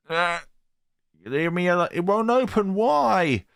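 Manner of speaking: high, rising panic; high, frantic girl; panicked schoolgirl. Acted.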